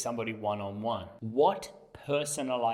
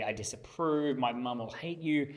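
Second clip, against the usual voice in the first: mock disapproval; 3 semitones higher than usual. Shown as a demonstration. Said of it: "You really got to exaggerate it".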